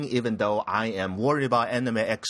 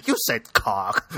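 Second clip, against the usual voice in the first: laughing; 3 semitones lower, slower than usual. Real, not acted. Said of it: "winners of cock".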